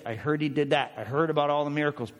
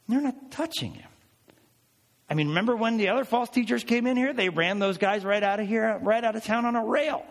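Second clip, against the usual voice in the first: higher, fast, incredulous build; amazed; 6 semitones higher than usual. Real, not acted. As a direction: marvel aloud at their inaction. Excited astonishment at Pharisees.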